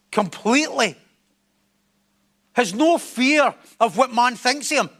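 emphatic sermon building in insistence; forceful preaching. Real, not acted. Preacher urging people to bare their soul, forceful preaching. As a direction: drive the point home, phrase by phrase.

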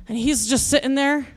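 ordinary delivery

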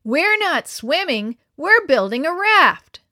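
put-on boy shouting to his friend with unconcern; shouted across. A narrator's reading. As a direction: call out across the sand. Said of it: "he shouted to Dan".

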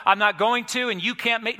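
put-on high, loud childish protest; hammed-up petulant defiance; mock defiant refusal. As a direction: act out a stubborn refusal. Mimics a defiant refusal to obey.

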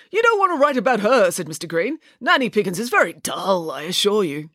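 prim, pompous father laying down rules; a fussy lawyer giving orders; father instructing the children before a visit, pompous; stiff lawyer father. Acted. Mister Green voiced.

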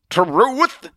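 high, rising, incredulous query; preacher's drawn-out question; scoffing surprise. Acted. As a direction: pounce on the word in disbelief. Atheist reacts with scorn.

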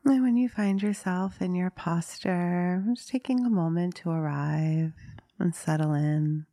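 unhurried meditation guide, long pauses between phrases; guided meditation. Acted. Meditation teacher inviting listeners to settle into a posture, guiding calmly. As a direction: gently lead listeners into stillness, leaving long silences.

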